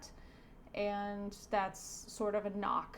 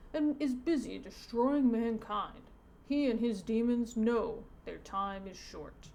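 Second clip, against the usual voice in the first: measured, emphatic pastor's warning; a hint of a preacher warning of Satan; lightly voiced pastor. Pastor teaching the boy about Satan, lightly preachy.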